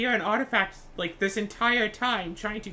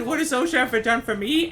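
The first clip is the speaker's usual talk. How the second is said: loud retold quote; 3 semitones higher, 5 dB louder than usual. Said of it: "I said".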